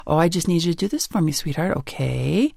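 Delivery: meek, pleading request that trails off on okay; tentative, unsure okay; weak and tentative. Retold or imitated. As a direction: ask as if you expect to be refused. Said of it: "I'm thinking weakness, tentative".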